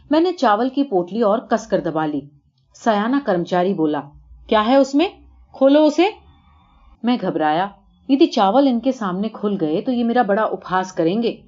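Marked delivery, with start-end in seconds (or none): 4.5-6.0 raised, higher bark of an order; a clerk shouting to see the bundle, loud and demanding. Acted. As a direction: snap at him to open it. Official demands to open bundle.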